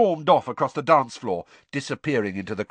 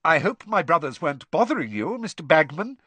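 pompous deference; 7 semitones higher, 3 dB louder than usual. Acted. Pompous Percy addresses ministry official.

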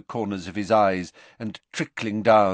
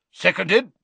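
short, louder, higher bark; 10 semitones higher, 5 dB louder than usual. Acted. Sprout backing Flitwick's proposal, barked. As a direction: bark out firm agreement. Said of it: "barked Professor Sprout".

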